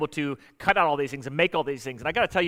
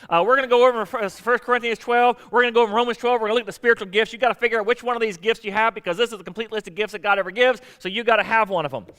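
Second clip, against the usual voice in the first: Southern preacher talk; 6 semitones higher, 5 dB louder than usual. Retold or imitated. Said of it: "I don't know why I go into Southern preacher talk".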